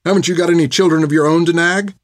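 angry outburst. Acted. Finn yells at the old nun Hilda, furious. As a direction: let the insults pile up, hotter and hotter. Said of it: "as she'd yelled at her".

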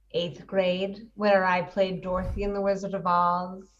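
lightly put-on transatlantic accent; old-Hollywood transatlantic accent. Shown as a demonstration. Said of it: "I'm talking like this because she has a transatlantic accent".

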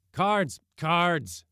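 high, eager call; rowdy shout for cards; excited clamour. Acted. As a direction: demand the next game with glee. Men clamour for card games.

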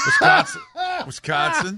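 high, shouted mock Wisconsin accent. Adding to the Midwest bit, shouted Wisconsin accent. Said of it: "the Midwest accent, like Minnesota".

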